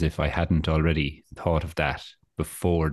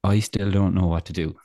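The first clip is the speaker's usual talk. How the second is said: sarcastic; 3 semitones higher than usual. Retold or imitated. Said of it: "You're like".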